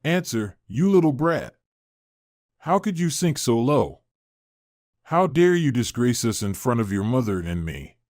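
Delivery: furious. Acted. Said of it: "even more furious".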